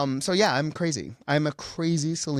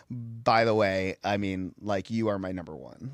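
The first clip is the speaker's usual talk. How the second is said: tag; 4 semitones lower than usual. Retold or imitated. Retelling confession to his idol.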